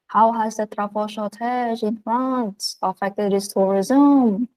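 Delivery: slow, hammed-up French accent; mock French accent, slow and exaggerated; horrible French accent. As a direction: put on a deliberately bad French accent. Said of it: "my horrible French accent".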